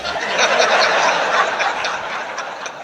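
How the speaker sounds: high, airy laugh at his own joke; breathy laugh. Real, not acted. Speaker laughing with the audience after his punchline, high breathy laugh.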